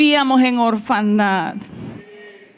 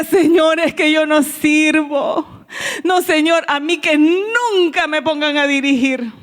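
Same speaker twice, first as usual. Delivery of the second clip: retold crying; 3 semitones higher than usual. Praying alone in the bathroom, retelling her crying plea. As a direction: plead to the Lord as if weeping, half acted. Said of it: "Y yo lloraba y le decía".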